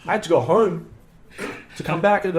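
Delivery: exasperated high-pitched fretting at the idea of flying straight back out; panicked disbelief. Retold or imitated. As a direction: squeak out the panic of an impossible trip. Panicked inner voice after invitation.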